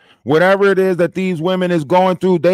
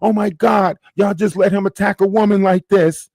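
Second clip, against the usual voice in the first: higher, mock-outraged woman's voice; mocking her outcry; 6 semitones higher than usual. Streamer mimicking a woman crying foul on stream. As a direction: ham up her fake alarm. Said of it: "she can say".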